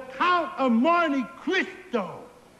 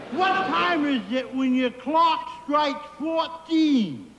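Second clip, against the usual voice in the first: calling out riddle. Acted. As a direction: belt out the riddle to your partner. Riddle called out to partner.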